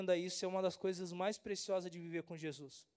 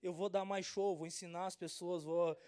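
excited retort. Retold or imitated. Pastor answering doubters, proud and excited. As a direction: proclaim it like a star. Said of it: "Eu falei".

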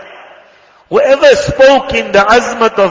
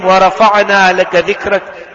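rapid Arabic recitation; much faster than usual. Real, not acted. Preacher reciting the durood to the congregation, rapid recitation. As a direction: rattle off the Arabic supplication at speed. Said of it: "quoting a Quran verse".

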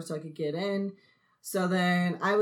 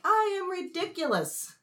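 laughing at herself; 4 semitones higher than usual. Retold or imitated. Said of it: "started laughing at myself".

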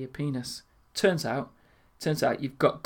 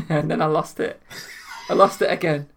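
laughing; 4 dB louder than usual. Real, not acted. Laughing at his own story.

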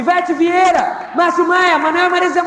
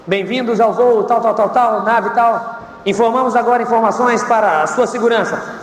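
lower, routine safety announcement voice; flight attendant; 5 semitones lower than usual. Retold or imitated. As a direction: recite it like cabin crew. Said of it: "o que que a pessoa fala?".

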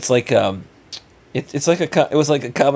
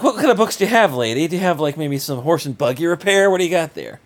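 sarcastic; 5 semitones higher than usual. Retold or imitated. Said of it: "Well, like".

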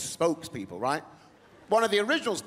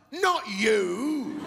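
reassuring fan; 5 semitones higher than usual. Retold or imitated. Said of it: "And he said".

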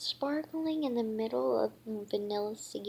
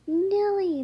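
excited call; 9 semitones higher, 7 dB louder than usual. A narrator's reading. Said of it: "Millie asked".

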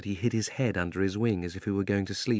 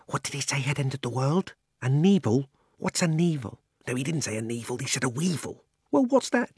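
chattering creatures; 4 semitones higher than usual. Acted. The beasts puzzling over Aslan's word, higher. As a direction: mutter confusedly like muddled animals. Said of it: "saying things like".

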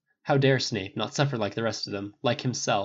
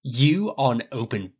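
slow, drawn-out sneer; 4 dB louder, much slower than usual. A narrator's reading. Snape reading Harry easily, sneering. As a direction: spell it out slowly with disdain. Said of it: "Snape sneered".

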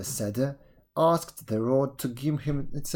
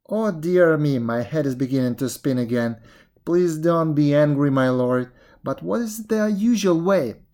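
loud, muddled pleading; flustered jackal; 3 semitones higher, 5 dB louder than usual. Acted. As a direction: plead as the head spins. Jackal feigns dizzy confusion.

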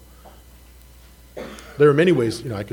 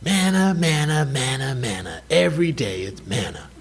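mock whine. Mocking the people's complaint.

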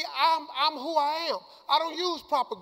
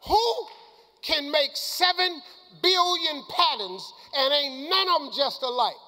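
preaching build-up; 5 semitones higher than usual. Real, not acted. Preacher stirring the crowd in fiery praise. Preaching about God's uniqueness.

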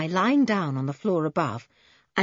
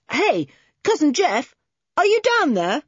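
loud, raised-pitch holler; calling down; 8 semitones higher, 5 dB louder than usual. A narrator's reading. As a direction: shout down a hole to someone below. Calling down into the hole.

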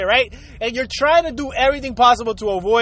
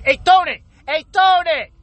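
raised call across the room to Tony; 5 semitones higher, 3 dB louder than usual. Retold or imitated. Calling out to Tony to get his attention. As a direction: call his name out loud, twice.

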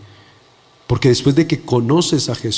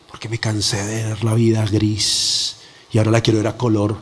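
lightly voiced troubled youth; 5 semitones lower, 3 dB quieter than usual. Preacher retells a suicidal young man's answer, lightly voiced troubled youth. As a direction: slightly lower voice of a despondent young man.

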